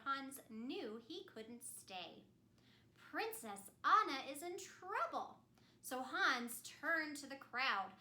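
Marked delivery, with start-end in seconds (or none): 3.0-5.4 higher, louder alarm; urgent warning; worried prince. Acted. Prince announcing the princess is in danger, urgent.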